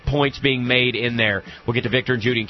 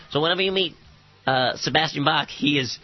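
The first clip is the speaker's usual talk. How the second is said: high baby voice impression; whiny man child; 4 semitones higher than usual. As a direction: squeak it up like a big baby. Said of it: "has a voice kinda like this".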